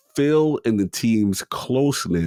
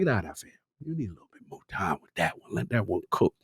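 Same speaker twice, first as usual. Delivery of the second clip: casual bro voice; faster than usual. Acted. Voicing Phil telling Todd.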